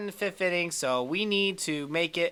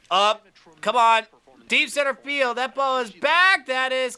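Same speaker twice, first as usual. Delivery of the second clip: louder, higher rush of hope; excited; 7 semitones higher, 6 dB louder than usual. Real, not acted. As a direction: ride the fly ball with her voice. Deep fly ball in game.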